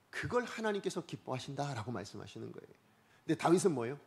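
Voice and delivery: normal talking voice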